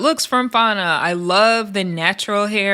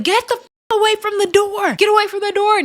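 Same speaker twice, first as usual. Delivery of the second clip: retold yell; 11 semitones higher than usual. Tavy Baby yelling at Natalie outside her door, high mock yell. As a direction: imitate her screaming through the door. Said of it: "she's yelling".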